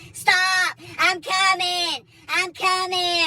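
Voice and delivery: high mock yell from far behind; wife calling out, running after him, high mock yell.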